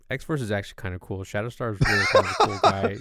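fast, eager fanboy gush; nerd voice. Retold or imitated. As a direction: gush like an excited comic nerd. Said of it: "that's why you heard my nerd voice".

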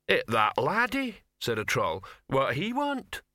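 a dim troll squinting at the dog. Acted. Troll asks the others about the dog, puzzled troll voice.

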